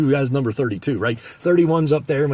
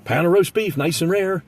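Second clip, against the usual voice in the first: higher, called-out deli order; mock yell; 4 semitones higher than usual. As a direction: call the order over the counter. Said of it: "what I do is I yell".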